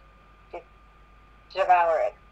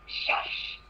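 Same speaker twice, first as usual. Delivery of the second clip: whispered shush; 8 dB quieter than usual. Acted. Trixie hushing Twilight in story.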